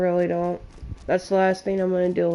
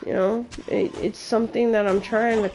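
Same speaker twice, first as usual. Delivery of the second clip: tearing up. Real, not acted. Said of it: "Yes, I'm tearing up".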